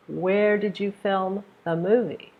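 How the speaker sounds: high "Where" gliding down by "movie". Shown as a demonstration. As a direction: begin high on "Where", fall through "movie". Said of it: "you raise your tone a little bit".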